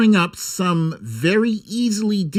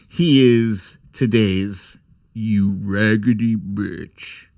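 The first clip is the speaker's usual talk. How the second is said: sassy put-on insult; 7 semitones lower, slower than usual. Insulting Chuck Todd.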